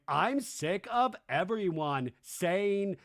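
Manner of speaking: imitated fed-up housewife; Lisa Barlow. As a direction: drag it out with put-on exasperation. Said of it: "And then Lisa Barlow going".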